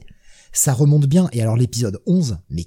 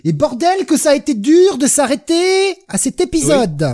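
much higher, slow, emphatic comic-impression voice; imitation d'Olivier de Benoist; 12 semitones higher, 4 dB louder than usual. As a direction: ham it up like a stand-up comic's exasperated rant. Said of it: "je parle comme Olivier de Benoît". (voix d'humoriste imitée, aiguë et traînante)

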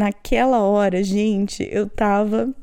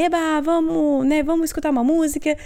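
put-on rally the children with a high "yay, let's go"; opgewekte aanmoediging; 6 semitones higher than usual. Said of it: "eu assim".

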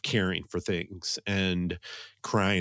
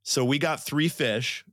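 excited; 6 semitones higher than usual. Real, not acted. Announcing surprising good news.

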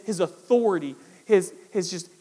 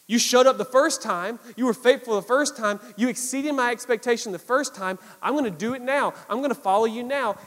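fervent commitment; 4 semitones higher, 5 dB louder than usual. Retold or imitated. Acting out Peter's renewed commitment.

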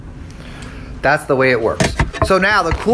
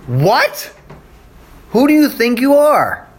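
indignant disbelief; 7 semitones higher than usual. Retold or imitated. The crowd fires back at Jesus in outraged disbelief. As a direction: scoff like a crowd that can't believe the claim.

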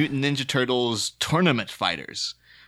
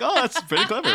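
light, much higher impressed voice; impressed mock exclamation; 13 semitones higher than usual. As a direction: pitch it way up, pleased. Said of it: "I would be quite like".

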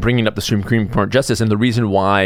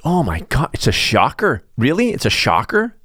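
sarcastic; 4 semitones higher than usual. Real, not acted. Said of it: "sarcastic surprise".

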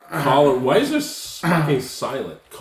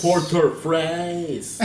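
put-on French accent; much slower than usual. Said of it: "It's just with the accent".

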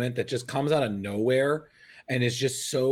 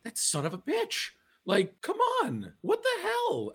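mock outrage. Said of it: "He's like".

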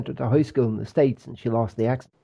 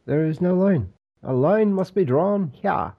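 a slow, lightly voiced Picard, pitched higher; Jean-Luc Picard; 5 semitones higher than usual. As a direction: intone it like a grave starship captain, slowly. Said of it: "Jean-Luc Picard".

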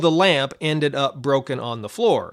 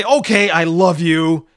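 mock condescending God; 4 dB louder than usual. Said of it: "he doesn't say".

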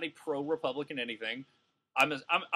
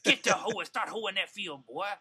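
raised, mocking Southern accent; Southern white accent; 4 semitones higher than usual. Comic playing a racist ordering a player off the field, Southern accent. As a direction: order someone about as a caricature Southern bigot. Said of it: "every Southern white person talks like that".

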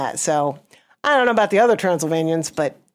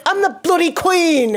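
higher, slow mock-queen declaration; indignant queen; 9 semitones higher, slower than usual. Comic quoting the queen atop a space whale, mock-indignant. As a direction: lightly play an affronted queen, drawn out.

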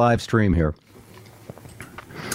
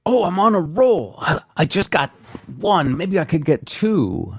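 mock excitement; 7 semitones higher than usual. Quoting own hopeful inner thought.

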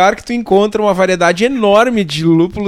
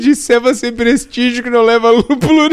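high, fast words between laughs; breaking up mid-sentence; laughing; 10 semitones higher than usual. Real, not acted. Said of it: "E temos o primeiro ataque de riso ao vivo".

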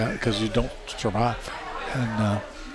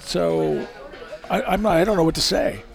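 laughing; 7 semitones higher than usual. Retold or imitated. Flustered, laughing on phone.

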